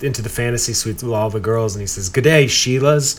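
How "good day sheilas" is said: slow mock Aussie greeting; Australian accent. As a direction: say it like a cheesy Aussie. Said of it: "try on some g'days".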